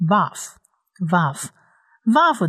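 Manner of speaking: slow, drawn-out vaf, vaf, vaf; slow letter demo. Shown as a demonstration. Teacher names the Hebrew letter slowly for learners. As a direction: spell out the letter name slowly. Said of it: "第一个字母呢是希伯来文字母".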